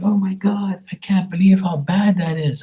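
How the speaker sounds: mock disgusted nephews. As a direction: squeal it like grossed-out boys. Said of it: "They were like".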